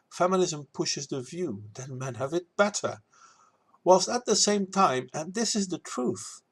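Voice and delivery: lilting rhymed rebuttal; verse recital. Acted.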